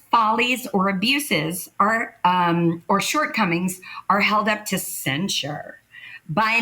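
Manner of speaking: measured, emphatic dictionary reading; reading a definition. Real, not acted. Performer reading colleagues the definition of satire, measured recital. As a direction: announce each term as a separate item. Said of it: "I'll read you the fucking definition".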